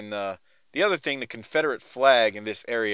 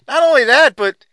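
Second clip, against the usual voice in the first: laughing; 9 semitones higher, 8 dB louder than usual. Real, not acted. Laughing while teasing co-host.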